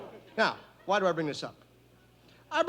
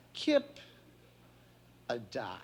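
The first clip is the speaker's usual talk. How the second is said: Saint Peter calls; 8 semitones lower, 6 dB quieter, slower than usual. Acted.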